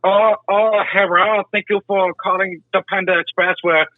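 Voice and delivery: high, put-on Asian accent. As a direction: fake Asian restaurant worker accent. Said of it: "doing a fucking Asian accent".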